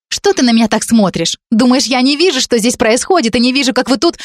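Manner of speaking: put-on high, accusing young woman's voice; a spurned girl throwing blame; jealous girl. Jealous college girl accusing Dan, high and bitter.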